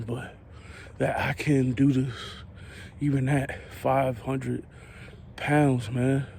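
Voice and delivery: panting between words; winded, still walking; heavy breathing. Real, not acted. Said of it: "sorry for the heavy breathing".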